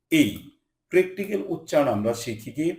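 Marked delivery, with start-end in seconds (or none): 0.1-0.3 এই as the letter name A; dictionary pronunciation. Shown as a demonstration. Teacher showing learners the letter A, dictionary pronunciation. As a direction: say এই as the dictionary sound of A. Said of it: "এর উচ্চারণ হয় ডিকশনারিতে".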